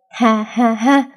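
a slow, smug, drawn-out laugh; slow proud laugh. A narrator's reading. Father proud of his fighting daughter, slow smug laugh. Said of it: "Ông đắc ý".

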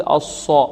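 الص with pursed lips, coloured toward o; wrong lip rounding. Shown as a demonstration. Teacher showing the mistake, rounded ص. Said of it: "هذا خطأ، لا نقول".

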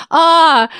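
high, loud cry of sudden pain; sharp pained scream. A narrator's reading. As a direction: cry out as the bolt is pulled. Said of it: "Кричу уже в следующий момент".

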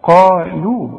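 "قالوا" with thick qaf and thin lam; heavy qaf, light lam. Shown as a demonstration. Teacher models the word for a student, heavy then light. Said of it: "فخم أوي ورقق أوي".

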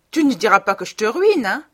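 put-on high, loud, wheedling young wife; high coaxing wife.

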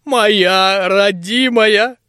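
slow, high, doting granny; old woman voice. Acted. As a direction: coo over it like an old crone. Granny cradles the mortar. (ласковая старушка, медленно)

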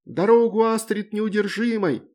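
high, loud battle cry; gleeful shout. A narrator's reading. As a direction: yell it while leaping down. Girl yelling while falling. (радостный громкий крик сверху)

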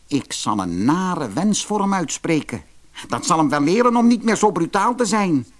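high, fast scheming dwarf; spiteful dwarf. Acted. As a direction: plot the nasty wish gleefully. Dwarf plots revenge.

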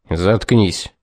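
low, curt shut-down; curt dismissal. Acted. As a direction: toss it off sharply. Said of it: "бросил ему Уилсон". (коротко бросил)

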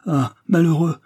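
aigu et fort, saisi d'horreur; cri d'effroi. Acted. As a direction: laisse échapper le cri. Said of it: "fit-il". (cri d'horreur soudain)

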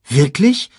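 high, loud rising question; Simba. A narrator's reading. Cub questioning his father's tale, high and wondering. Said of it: "wollte Simba wissen".

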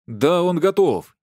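slow, high, loud hesitant protest; drawn-out uncertain protest; unsure objection. A narrator's reading. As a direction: insist without believing it. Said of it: "неуверенно возразил Гейб".

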